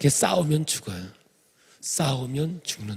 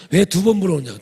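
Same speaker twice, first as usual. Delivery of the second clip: louder, annoyed retort; irritated husband; 3 semitones higher, 6 dB louder than usual. Retold or imitated. Husband annoyed when wife asks twice, louder. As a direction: snap back at being asked twice.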